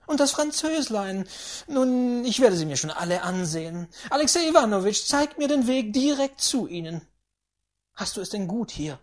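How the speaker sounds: put-on high, loud, scornful old lady; mocking grandaunt. A narrator's reading. Grandaunt sneering at the general's household, high and loud. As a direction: sneer at the spendthrift family.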